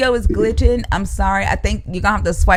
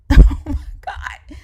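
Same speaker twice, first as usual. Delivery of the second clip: breathless laughter through "Oh my God"; laughing embarrassment; 5 semitones higher, slower than usual. Real, not acted. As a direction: crack up at your own blunder. Laughing at own botched name.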